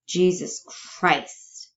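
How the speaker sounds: slow, stunned oath; drawn-out disbelief; shocked. Acted. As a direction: let it out slowly in shock. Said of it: "Shocked at this".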